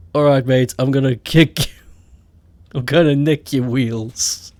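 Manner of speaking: lightly done Scouse threat; Scouse accent. Shown as a demonstration. Mock Liverpudlian threatening to steal wheels, light Scouse. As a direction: have a go at a mild Scouse.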